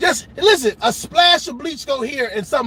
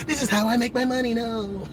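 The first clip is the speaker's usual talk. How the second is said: mock begging; 7 dB quieter than usual. Begging as victim.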